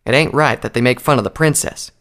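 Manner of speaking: mildly aggrieved objection; protesting. Acted. Applejack protests the mocking of her princess, mildly aggrieved. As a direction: object with some force. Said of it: "Applejack protested".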